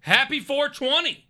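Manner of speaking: high, drawn-out holiday shout-out; cheering greeting. Real, not acted. Calls greeting to viewer.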